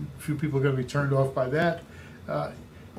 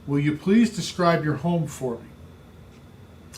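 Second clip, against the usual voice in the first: very slow, deliberate asking; gentle, unhurried question to the seller; slow model question; much slower than usual. Shown as a demonstration. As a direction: read the question out slowly and carefully. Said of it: "Second question".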